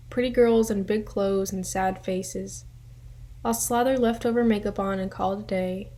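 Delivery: measured poem recital with pauses between lines; poetry reading. Acted. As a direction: read your own poem, line by line. Reads own poem aloud.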